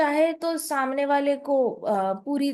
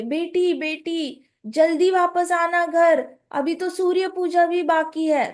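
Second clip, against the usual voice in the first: higher, louder call from behind; calling after her; 4 semitones higher, 4 dB louder, slower than usual. Acted. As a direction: call out to the departing girl. Mother calling after Radha. (पीछे से ऊँची आवाज़ में पुकारना)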